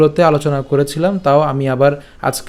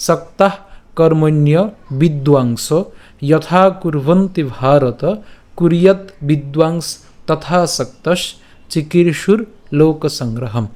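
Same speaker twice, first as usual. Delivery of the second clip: slow, measured recitation in short phrases; careful, slow verse reading with pauses; Sanskrit verse recitation; slower than usual. Shown as a demonstration. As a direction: recite the shloka word by word for learners.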